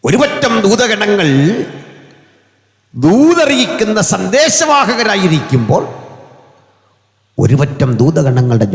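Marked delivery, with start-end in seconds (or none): 0.0-5.8 soaring preaching. Acted. Preacher lifts voice on angels.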